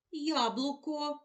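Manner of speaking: drawn-out, careful word; slow answer for children. Shown as a demonstration. Teacher answering slowly for the class. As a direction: say it slowly so the sound O is heard. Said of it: "Де ми чуємо звук О?".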